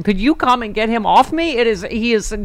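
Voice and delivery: panicked plea. Retold or imitated. Retold panicked phone call.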